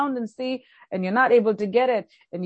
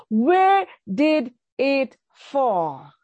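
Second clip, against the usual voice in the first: slow probing question; much slower than usual. Retold or imitated. Elisha asking the man where the axe head fell, slow and deliberate. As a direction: ask it slowly, searching. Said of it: "to ask this question".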